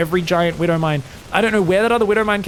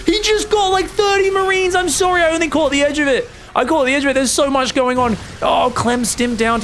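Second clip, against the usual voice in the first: much higher and louder, stunned hype; excited shout; 11 semitones higher, 4 dB louder than usual. Real, not acted. Caster reacting to thirty Marines dying, excited much higher. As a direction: yell it like you can't believe it. Caster sees a huge mine hit.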